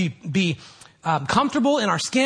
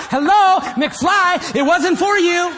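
high, loud mocking shout; Biff; 11 semitones higher, 6 dB louder, slower than usual. Preacher borrowing a bully's catchphrase on complainers, loud taunting. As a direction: taunt them like a film bully. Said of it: "a guy named Biff".

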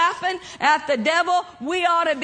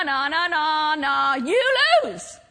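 mild playground taunt, acted out; mocking. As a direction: chant it teasingly, then drop on the last word. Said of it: "It says he mocks him".

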